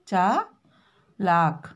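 चालाक drawn out very slowly and low; slow spelled-out चालाक. Shown as a demonstration. Teacher dictates चालाक slowly to the class. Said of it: "इस तरह से हम लिखते हैं".

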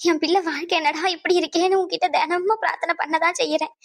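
wailing to God in distress; tearful lament. Acted. Mother crying to God over her child's life, tearful lament. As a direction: lament through tears, drawing out the cries. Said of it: "இந்த மாதிரி ரொம்ப அழுகாதீங்க".

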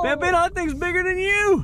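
high, excited exclamation; excited amazement. Real, not acted. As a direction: marvel at how big it is. Amazed at fish size.

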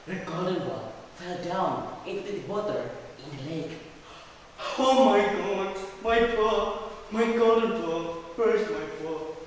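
acted dismay. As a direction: cry out for a lost treasure. Princess loses her golden ball.

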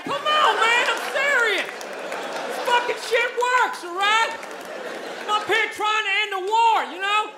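put-on Southern-accented Einstein pleading, then giving up. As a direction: plead like an ignored redneck genius. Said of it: "if Albert Einstein had a really harsh Southern accent".

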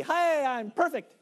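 a proud newborn showing off; lightly voiced perfect baby; smug baby. Baby voiced in a sales pitch.

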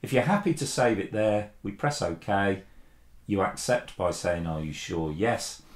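ordinary talk, nothing marked

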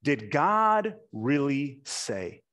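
slow, insinuating tempter voice; a hint of a scheming serpent; serpent's question. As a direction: draw it out like the sly serpent. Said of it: "he said".

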